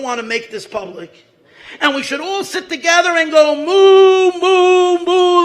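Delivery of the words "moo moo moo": high, loud drawn-out moo; cow mooing. Pretend. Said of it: "like a cow".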